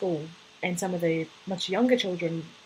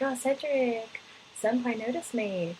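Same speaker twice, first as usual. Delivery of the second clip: lightly acted teenage fangirl gushing; swooning fourteen-year-old; 4 semitones higher, slower than usual. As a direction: imitate a smitten teen fan, drawn out. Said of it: "if I were a fourteen-year-old reading this".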